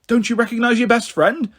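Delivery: lightly voiced old man, teasing; a hint of an amused old man; chuckling old man. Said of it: "chuckles the old man".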